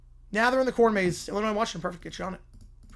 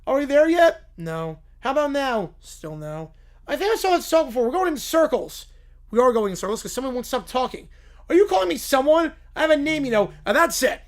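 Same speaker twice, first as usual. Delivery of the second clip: put-on higher, louder nagging kid voices; 7 semitones higher, 7 dB louder than usual. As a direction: pester like bored children. Kids nag, princess takes offence.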